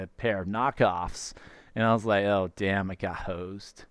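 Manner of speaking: put-on American accent, dude-style storytelling. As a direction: tell it as an American dude, slightly Canadian-sounding. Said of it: "sounded more Canadian than American".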